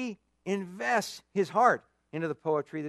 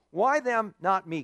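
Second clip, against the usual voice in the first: a whiny why them, not me; whiny complaint; 3 semitones higher, 3 dB louder, slower than usual. Retold or imitated. Preacher mimics the old complaint, mildly whiny. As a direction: complain like someone left out. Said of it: "It's the old, kick".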